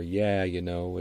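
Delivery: Upper Midwest "Yeah, you know" with flat "yah"; Upper Midwest accent. Shown as a demonstration. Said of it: "it's "Yeah".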